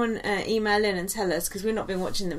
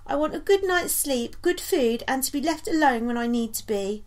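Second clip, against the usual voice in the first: Nikki impression; 4 semitones higher than usual. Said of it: "That wasn't so good".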